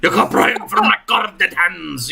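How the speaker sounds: put-on heavy Morzanthian accent. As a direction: throw on a thick Morzanthian accent. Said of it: "with a heavy Morzanthian accent".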